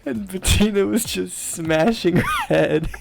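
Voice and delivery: slow, hushed storytelling; dramatic hush. Real, not acted. Narrator telling friends a creepy bit, hushed and slow. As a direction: build the eerie moment slowly. Spooky retelling of night.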